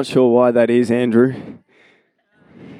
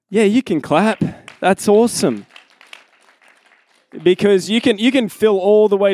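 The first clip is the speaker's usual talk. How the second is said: excited; 6 semitones higher than usual. Real, not acted. Cheering on the clapping crowd.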